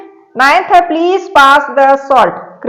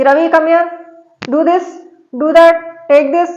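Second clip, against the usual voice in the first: bossy parent commands; 4 semitones higher, much slower than usual. Shown as a demonstration. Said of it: "जैसे माँ बाप अपन को ऐसा बोल सकते हैं".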